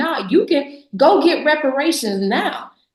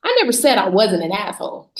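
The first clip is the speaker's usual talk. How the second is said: laughing retort; 3 semitones higher than usual. Retold or imitated. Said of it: "I said".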